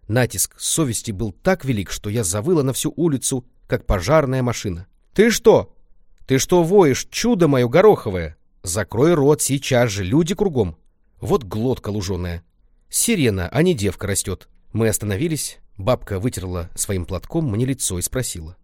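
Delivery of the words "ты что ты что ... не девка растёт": startled scolding. Acted. Grandma scolds wailing Lenka on the street, loud scolding. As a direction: hush her howling, exasperated.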